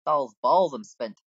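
lightly voiced spent tavern customer; put-on customer voice. Tired customer ordering dodo and ale, lightly acted. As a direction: order food in your favourite character voice. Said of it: "You're all gonna have this voice".

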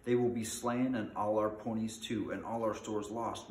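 lightly acted group moan; mild mock wail; moaning lament. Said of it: "moaned the others".

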